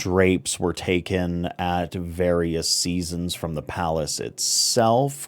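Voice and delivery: slow, softly spoken crime boss; smug gang boss showing off his collection. Acted. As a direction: point out each treasure slowly and quietly. Game master voices Kosovan showing off his loot.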